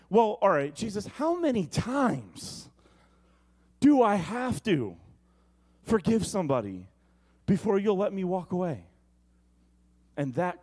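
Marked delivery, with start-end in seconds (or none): 0.1-8.9 exasperated Peter. Retold or imitated. Peter pressing Jesus, exasperated.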